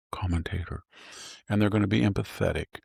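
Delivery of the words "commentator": NPR commentator. Retold or imitated. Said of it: "They're gonna talk like an N P R".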